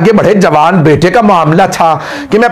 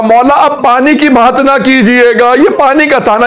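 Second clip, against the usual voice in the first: weeping plea; 7 semitones higher than usual. A narrator's reading. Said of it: "अब जनाब हुर रोने लगे".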